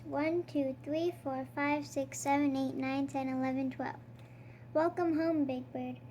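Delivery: lightly voiced Count reading a counting story; a hint of the vampire Count, savouring each number; storybook Count, counting with relish. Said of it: "I am the Count".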